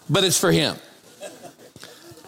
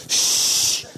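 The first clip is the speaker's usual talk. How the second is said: sharp whispered shush; hushing. Retold or imitated. Mother hushing her son in church, whispered shush. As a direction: hush him in a whisper. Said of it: "And she goes".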